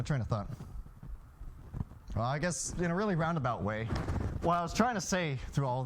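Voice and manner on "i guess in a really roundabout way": normal talking voice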